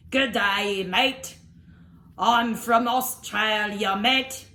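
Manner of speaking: slow, badly faked Australian; bad Australian accent. French dinosaur attempting to sound local, clumsy Australian accent. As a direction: labour through an Australian accent with French showing. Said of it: "I cannot do the Australian accent".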